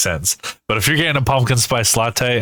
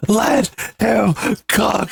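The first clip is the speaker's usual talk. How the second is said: high, drawn-out mock shout; mock TikTok catchphrase; 8 semitones higher, slower than usual. Co-host parodying TikTok videos, hammed-up high shout. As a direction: build to a high, slow "let him cook".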